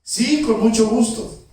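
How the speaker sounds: high, loud, drawn-out yes; glad acceptance. Acted. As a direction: accept heartily, stretching the words. Woman gladly accepts next visit. (aceptación efusiva, aguda, fuerte y alargada)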